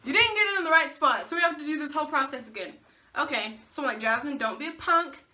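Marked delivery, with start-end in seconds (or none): 0.0-2.7 sarcastic. Retold or imitated. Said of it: "Well, I'll be damned".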